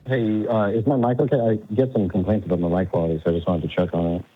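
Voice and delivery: fuzzy, muffled phone line; speaking through a bad mic. Real, not acted. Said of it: "sounds like you're muffled a bit".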